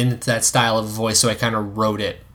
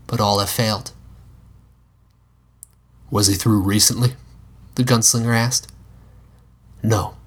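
cowboy voice. Acted. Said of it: "I appreciate your cowboy voice".

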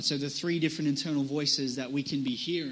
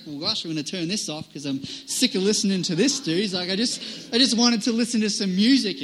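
louder, playful imitation of a fed-up friend; mock exasperation; 3 semitones higher, 6 dB louder than usual. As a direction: retell the complaint with mock annoyance. Retelling a friend's mock complaint.

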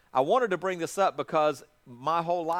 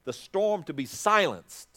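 1 slow emphasis; much slower than usual. Real, not acted. Preacher slows for emphasis.

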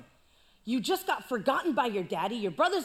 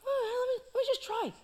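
put-on eager kid; 10 semitones higher than usual. David tries the sling.

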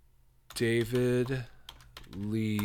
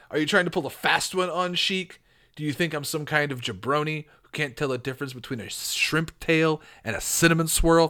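lightly indignant wrestler; mild tough-guy accusation; 3 semitones higher than usual. Acted. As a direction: challenge them like a promo. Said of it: "go with a tough voice".

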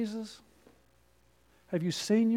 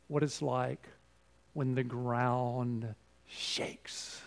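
hushed retelling; 7 semitones lower, 9 dB quieter, much slower than usual. Retold or imitated. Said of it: "she said".

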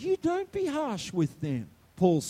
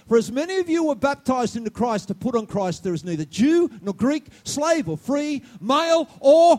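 building scripture quote; 4 semitones higher, 7 dB louder than usual. Real, not acted. Preacher quoting scripture, building up.

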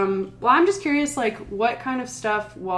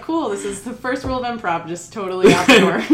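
laughing; 2 semitones higher, 6 dB louder than usual. Retold or imitated. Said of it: "I was like".

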